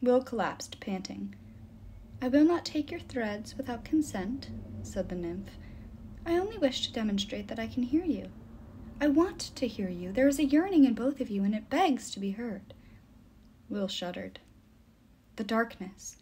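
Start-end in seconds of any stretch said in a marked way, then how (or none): 2.2-12.7 slightly lifted voice of a mournful nymph; earnest, sorrowful nymph. Acted. The nymph explains lonely souls to Will, earnest and sorrowful. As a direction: plead gently for the lonely souls.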